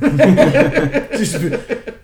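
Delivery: very high and loud, drawn out with laughter; squealing laughing taunt. Pretend. Joking along with the boxer stories, a squealed laughing taunt. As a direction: squeal it out slowly through laughter.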